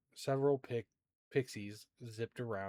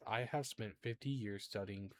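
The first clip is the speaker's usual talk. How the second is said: softer, understated fortune teller's grumble; muttering under breath; 6 dB quieter than usual. Acted. Fortune teller grumbling on arrival, muttering under her breath. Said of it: "mutters under her breath".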